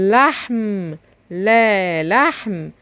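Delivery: لحم sounded out, opening لا isolated; opening L demonstration. Shown as a demonstration. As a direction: show the first sound of لحم on its own. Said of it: "في أول الكلمة". (إظهار صوت لا في أول لحم)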